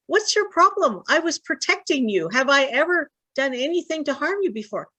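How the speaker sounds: high, hurt donkey voice protesting; indignant talking donkey. Retold or imitated. Donkey scolds his master, high and indignant. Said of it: "eventually the donkey's like".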